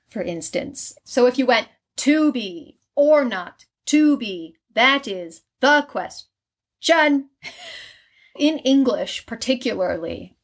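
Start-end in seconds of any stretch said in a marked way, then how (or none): 2.0-7.3 "To be or not to be, that is the question" slow, with fresh stress on or and the; changed inflection. Shown as a demonstration. Showing a switched inflection of the famous line. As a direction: stretch the line out slowly with new stresses. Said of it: "switch up the inflection of that line".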